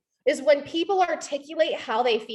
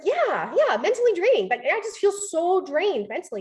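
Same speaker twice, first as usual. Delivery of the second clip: role-played relieved agreement, pitched up; higher, emphatic acted yes; 5 semitones higher than usual. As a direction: agree eagerly, as if finally understood. Acting friend who feels understood.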